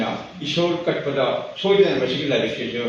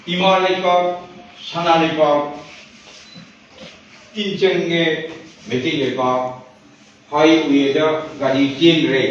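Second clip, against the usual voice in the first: verse declaimed in short, spaced phrases; measured poetry reading; poem recitation. Acted. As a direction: recite to the hall, pausing after each phrase.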